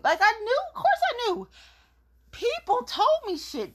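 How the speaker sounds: high amused laughing confession; laughing admission. Real, not acted. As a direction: laugh as you admit it.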